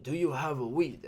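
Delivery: a light put-on East Asian accent on the question; slightly mocking East Asian accent, asked flatly; imitating the tall guy's East Asian accent; imitated Asian accent. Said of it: "that accent".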